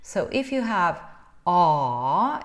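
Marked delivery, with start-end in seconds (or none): 1.4-2.4 R as a long "ah" from the back of the mouth; back vowel. Shown as a demonstration. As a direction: sound R as an open ah, far back. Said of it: "at the back of your mouth".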